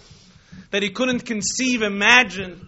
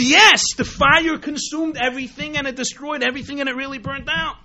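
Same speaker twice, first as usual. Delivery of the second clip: mock exasperated insistence; 5 semitones higher, 4 dB louder than usual. Manager insists yet again.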